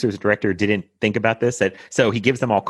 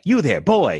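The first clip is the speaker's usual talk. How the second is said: Scrooge calling down; 6 semitones higher, slower than usual. Retold or imitated. Scrooge calls down from his window, higher voice. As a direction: call out to the boy below. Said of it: "And he's like".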